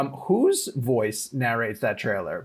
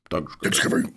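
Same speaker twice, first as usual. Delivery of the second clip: horror trailer voice; 7 semitones lower, slower than usual. Pretend.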